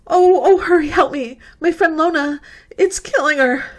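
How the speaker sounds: crying plea. Acted. Frightened girl sobbing to the sheriff for help. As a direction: sob it out, pleading.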